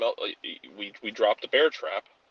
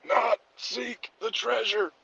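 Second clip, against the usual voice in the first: dramatic movie voice; 10 semitones higher, slower than usual. Acted. Dramatic old movie line.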